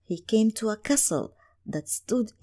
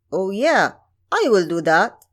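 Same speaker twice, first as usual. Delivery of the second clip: put-on louder, eager young prince agreeing; 6 dB louder than usual. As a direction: promise it at once, smitten.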